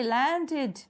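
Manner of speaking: लैंडेड as laan-ded, each beat distinct; teacher sounding out लैंडेड; two-syllable demo. Shown as a demonstration. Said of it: "जब pronounce करते हैं". (लैंडेड को लैन-डेड, दो हिस्सों में बोलें)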